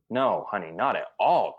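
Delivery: smooth, convincing denial; reassuring no. Acted. Reassuring honey about her dress, smoothly. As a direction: reassure with swooping emphasis, then an exclaimed damn. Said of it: "just how you're saying it".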